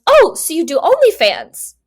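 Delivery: put-on loud, high drunken blurt; hammed-up tipsy stranger asking; drunk man voice. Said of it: "he turns to her and goes".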